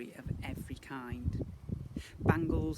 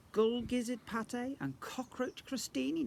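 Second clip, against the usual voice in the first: a hint of a tempting offer; 10 semitones higher, 3 dB louder than usual. Nancy tempting prince.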